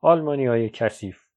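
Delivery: put-on a hateful loud outburst by the boy; said loudly with hatred. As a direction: call it out loud, full of hate for the soldiers. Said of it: "با صدای بلند گفت".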